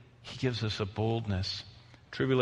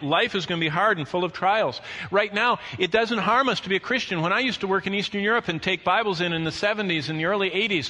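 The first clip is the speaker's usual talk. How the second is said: higher, emphatic pulpit voice; forceful preaching; 7 semitones higher, 5 dB louder than usual. Real, not acted. Preacher warning of hard trials for Christians, forceful preaching. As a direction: preach it with rising urgency.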